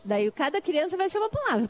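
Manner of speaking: normal talking voice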